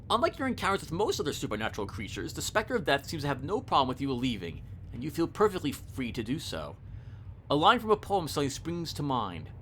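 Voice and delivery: measured second-person narration; story narration. A narrator's reading. Player facing Death at chess, story narration. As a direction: read the uncanny encounter evenly. Reads the game's story text.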